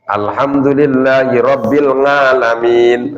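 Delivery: slow level chant with nasal "Ngalamin"; Javanese dialect recitation. Shown as a demonstration. Teacher showing how Javanese people read it, dialect chant. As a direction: chant the verse, starting "Ngalamin" on ng instead of ain. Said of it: "ain seharusnya dibaca nga".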